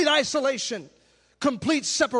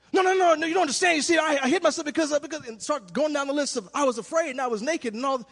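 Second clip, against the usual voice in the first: flustered excuses; 3 semitones higher, faster than usual. Acted. Voicing guilty excuse-making Adam.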